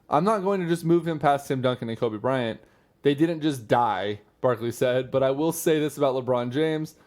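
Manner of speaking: reading the article out in a light news voice; lightly voiced news report. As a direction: read it like a sports news item. Reads news item aloud.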